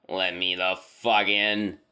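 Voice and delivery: slow, strange-toned creature voice with no rhythm; halting inhuman voice. Retold or imitated. Thing outside the door repeating its demand, slow and inhuman. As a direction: stretch the words oddly like a trained animal talking. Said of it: "it just keeps saying".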